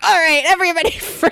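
high, laughing hammed-up command; mock threat. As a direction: Hannah holds everyone at gunpoint, hammed up. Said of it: "Hannah's like".

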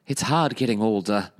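put-on a light old Hollywood mid-Atlantic lilt, slow at the end; a lightly done old Hollywood star sighing; old Hollywood accent. Cohost imitating the guest actress in old Hollywood accent. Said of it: "That was great what I just did".

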